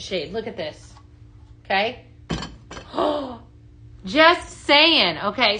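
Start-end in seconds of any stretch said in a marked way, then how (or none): 2.7-3.4 small high intake of breath; soft high gasp of delight. Real, not acted. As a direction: gasp in pleased surprise. Delighted at product.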